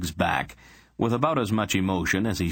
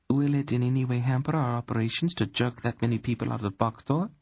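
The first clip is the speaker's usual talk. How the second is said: queen voice; 6 semitones higher than usual. Acted. Queen Poran speaks.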